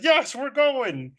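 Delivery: high, drawn-out overruling; mock insistence. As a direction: stretch it out, brooking no argument. Acts out insisting on the walk.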